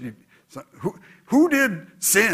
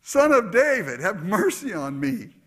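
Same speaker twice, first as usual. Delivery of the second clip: shouting for mercy; 6 semitones higher than usual. Retold or imitated. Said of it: "he shouts out again".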